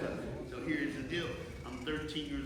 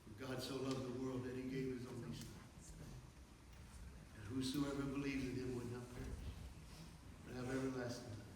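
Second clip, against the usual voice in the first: hushed scripture recital; 8 dB quieter than usual. Real, not acted.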